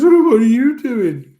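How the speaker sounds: a hint of a cheerful Aussie barman; chirpy barman. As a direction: perk up like a barman spotting the girls. Barman greeting the girls cheekily.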